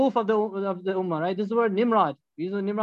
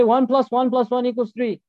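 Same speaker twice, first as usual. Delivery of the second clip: firm louder version; 2 semitones higher, 3 dB louder than usual. Shown as a demonstration. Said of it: "You go to him and you say".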